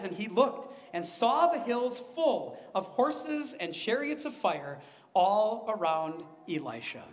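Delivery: measured Bible reading voice; preacher reading the story of Elisha aloud; scripture reading. Acted. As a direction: read the passage to the congregation, unhurried. Reads the scripture passage aloud.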